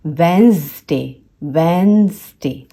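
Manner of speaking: वेडनेसडे as "wenz-day"; careful two-beat वेडनेसडे, first D dropped; silent D. Shown as a demonstration. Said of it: "ये होता है".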